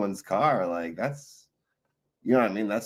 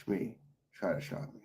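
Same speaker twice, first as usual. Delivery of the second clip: higher, theatrical pirate captain; Captain Hook impression; 5 semitones higher than usual. Streamer imitating Captain Hook scolding Shmee, hammed-up pirate voice. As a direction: play Hook barking at his sidekick Shmee. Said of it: "When he played Captain Hook".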